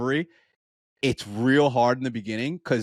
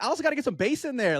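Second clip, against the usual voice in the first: exasperated; 13 semitones higher, faster than usual. Retold or imitated. Voicing himself to runner.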